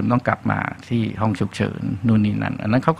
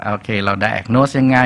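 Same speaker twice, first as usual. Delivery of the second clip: slow explaining quote; much slower than usual. Retold or imitated. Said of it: "ก็ต้องบอกว่า".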